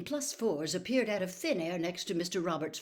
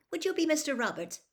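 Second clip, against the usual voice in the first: much higher, fast eager question; 9 semitones higher, faster than usual. Acted. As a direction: ask brightly, a bit too keen.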